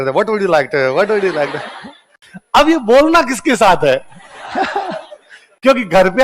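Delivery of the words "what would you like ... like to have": mumbling the practice sentence over and over, half laughing; parroting a drilled phrase mindlessly; mock rote repetition. A student mocking his own spoken-English drill, parroting it. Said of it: "अब वहां पे बैठे बैठे".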